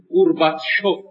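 گورباچوف said as "gurbat-sho"; Arabic-style pronunciation. Shown as a demonstration. Lecturer showing today's written-Arabic form, Arabic-style pronunciation.

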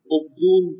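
عبدون said as "Obdun", first vowel o; o-vowel pronunciation. Shown as a demonstration. Teacher citing the disputed reading of a name, عبدون with initial o. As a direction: open عبدون with a short o: "ob-DUN". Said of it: "تلفظ صحیحش احمد ابن عبدون باشه، نه عبدون".

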